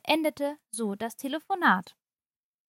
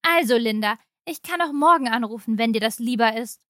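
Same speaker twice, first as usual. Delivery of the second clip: louder, fast, annoyance tipping into anger; annoyed turning angry; 4 dB louder, faster than usual. Acted. Mother-in-law on the phone losing patience with Linda, annoyed to angry. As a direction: rush the words as her patience snaps. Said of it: "von genervt zu wütend".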